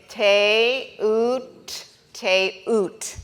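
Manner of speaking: te oot, said twice in two beats; repeated sounding out. Shown as a demonstration. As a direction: repeat te oot clearly for the class. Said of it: "why we say it like that".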